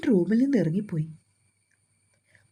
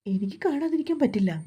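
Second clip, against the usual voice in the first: higher, upset pleading; mildly acted distress, pitched up; voice faltering; 5 semitones higher than usual. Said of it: "മാളുവിൻ്റെ ശബ്ദം ഇടറി".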